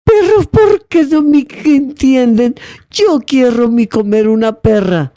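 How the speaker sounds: put-on a Czech boy pleading, slow and high, Czech accent; frustrated Czech accent. Czech boy frustrated nobody understands him, Czech accent. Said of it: "el acento de Checoslovaquia".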